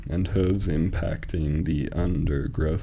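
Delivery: slow, measured scansion; metrical, deliberate pacing; syllable-counting reading. Shown as a demonstration. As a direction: draw out each syllable so it can be counted.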